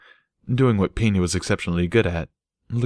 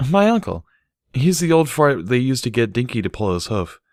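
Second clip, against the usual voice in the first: higher, lively mare voice; Barry's voice; 5 semitones higher, 3 dB louder than usual. Acted. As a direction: voice the cheerful mare. Barry speaks in dialogue.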